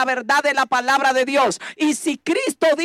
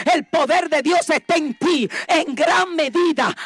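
fervent preaching, phrase after phrase; prédica enérgica; 2 semitones higher than usual. Real, not acted. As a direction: proclaim it to the congregation with conviction. (predicando con fervor)

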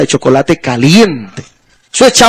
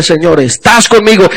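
oración. Retold or imitated. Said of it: "Yo decía".

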